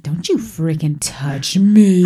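slow, icy warning; cold snap. Retold or imitated. Wife slowly snapping at her husband to keep away. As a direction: back off, every word deliberate and slow.

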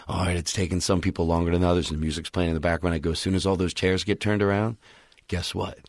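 low, toneless MC voice; toneless swanky parody. Shown as a demonstration. Comic prodding audience to turn chairs, toneless swanky parody. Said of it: "no tone in my voice".

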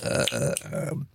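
lightly tipsy, losing the thread. Real, not acted. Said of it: "I'm tipsy now".

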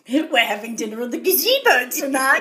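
hammed-up announcer breaking into laughter; mock announcement. Playing the neighbour announcing the show continues, mock-grand.

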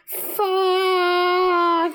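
long, high creature wail; anguished gremlin curse. Retold or imitated. Rejected monkey cursing after his proposal, high gremlin wail. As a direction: squeal one drawn-out word in mock anguish.

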